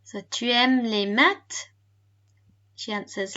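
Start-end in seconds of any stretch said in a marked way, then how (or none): 0.3-1.7 slow, careful French question; slower repeat. Shown as a demonstration. Teacher repeats a fast recorded question, slowly. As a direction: ask it slowly for learners. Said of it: "So quite a fast one there".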